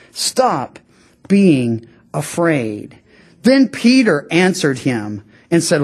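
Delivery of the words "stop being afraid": slow reassurance. Retold or imitated. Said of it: "He's saying".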